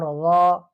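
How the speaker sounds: ظا said full and heavy; full heavy zaa. Shown as a demonstration. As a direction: round out ظا with a heavy, full sound. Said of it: "تھوڑا پر پڑھیں گے".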